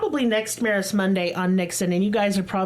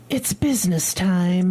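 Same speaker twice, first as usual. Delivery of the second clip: goblin voice; 4 dB louder, slower than usual. Acted. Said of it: "Why'd you say it all crazy".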